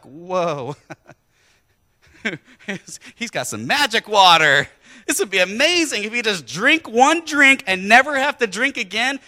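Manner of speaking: lightly voiced excited woman; amazed woman. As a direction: marvel at the magic water.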